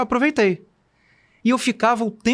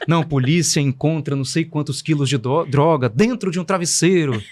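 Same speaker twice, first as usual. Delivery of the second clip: voz de apresentador; 3 semitones lower than usual. Retold or imitated. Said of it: "Uma voz de apresentador".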